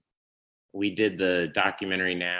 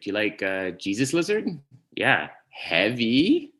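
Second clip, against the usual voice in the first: Jeremy Garrett. Retold or imitated. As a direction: mimic a friend's upward-lifting questions. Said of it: "do impression of him is".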